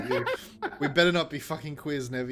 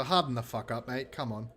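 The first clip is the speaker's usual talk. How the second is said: mock tough doctor; 3 semitones lower, 4 dB quieter than usual. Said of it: "I'd love to hear that from the doctor".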